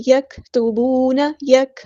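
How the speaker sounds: یکتبون recited slowly, breath after the k; breath-released kaf. Shown as a demonstration. Teacher models it, breathy k release in یکتبون. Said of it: "سانس جاری رہتا ہے".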